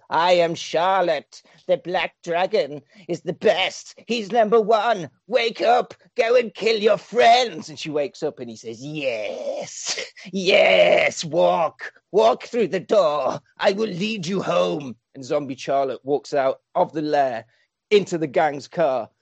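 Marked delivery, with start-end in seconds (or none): 0.1-7.7 slow, chanting hypnotist villain; hypnotic villain. Acted. Villain chanting commands into Charlotte's sleeping mind, slow. 8.8-15.0 slow, drawn-out villain coaxing; hypnotic villain. Acted. Villain guiding zombie Charlotte out the door, slow.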